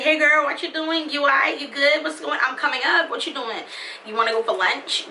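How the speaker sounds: imitating friendly text. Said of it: "I can now text him, like".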